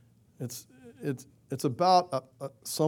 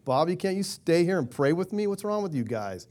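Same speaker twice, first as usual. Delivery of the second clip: mock-exasperated, pitched up, scolding sleepy friends; exasperated rebuke; 4 semitones higher than usual. Preacher imagining himself scolding sleeping disciples, mock exasperation. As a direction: chide them like a let-down friend, half-playful. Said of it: "I'd be going".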